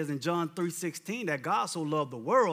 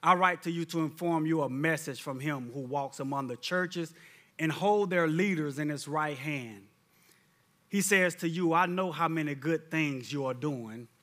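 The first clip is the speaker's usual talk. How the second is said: scripture reading; 3 semitones lower than usual. Acted. Preacher reads Revelation to the church, solemn and low. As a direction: read it like the Lord speaking.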